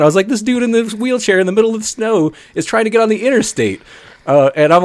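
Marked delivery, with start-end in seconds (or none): 0.3-3.8 high-pitched retold disbelief; incredulous report. Telling friends of a wheelchair heading for the interstate, incredulous. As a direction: relay it high, as if you can't believe it.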